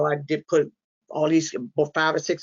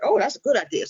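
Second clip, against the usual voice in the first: higher, mildly struck by an idea; acted realization; 7 semitones higher, faster than usual. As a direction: replay a small moment of discovery. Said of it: "I was like".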